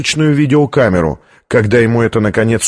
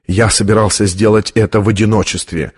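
usual speaking voice

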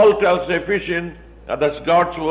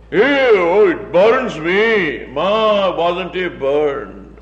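mock superiority; 2 semitones lower, much slower than usual. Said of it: "saying it with such a superiority".

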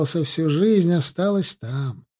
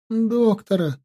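hoarse rasp; 7 semitones higher, slower than usual. A narrator's reading. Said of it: "просипела она".

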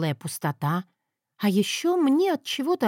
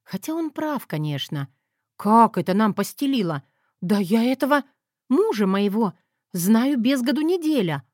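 ordinary delivery, nothing marked

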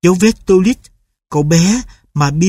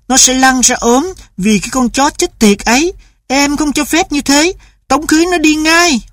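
much higher, angry tirade; furious mother; 9 semitones higher than usual. A narrator's reading. Mother rails at husband over the sick dog, much higher and angry. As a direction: rage against the stray dog.

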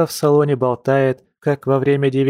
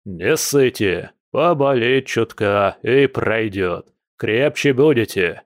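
put-on slow, hearty old-bear talk; lightly voiced general, dragging out each word; booming old general; slower than usual. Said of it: "Услышав зычный бас генерала".

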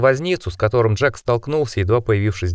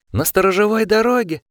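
shrill demand; 11 semitones higher than usual. A narrator's reading. Osmond interrogating Steven.

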